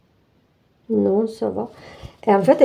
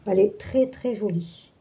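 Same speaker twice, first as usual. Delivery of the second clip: softer repeat, fading almost to nothing; quiet echo; 7 dB quieter than usual. Real, not acted. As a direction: murmur it again to yourself, trailing away. Repeats the compliment to herself. (répété à mi-voix, qui s'éteint)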